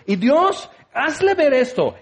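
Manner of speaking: high, insistent mock pleading; mock tantrum prayer. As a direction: demand it in parody. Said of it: "Así haces tu perrinche".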